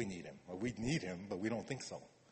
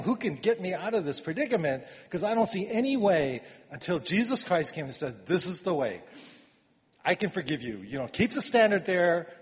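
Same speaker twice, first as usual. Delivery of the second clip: impassioned retelling; 4 semitones higher, 4 dB louder than usual. Retold or imitated. Paul's plea, Jesus' reply.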